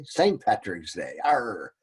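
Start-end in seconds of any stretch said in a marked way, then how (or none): 1.2-1.7 a quick hammed-up pirate "Arr!"; pirate growl. Teacher slips into a mock pirate growl. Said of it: "Oh, no, I'm a pirate".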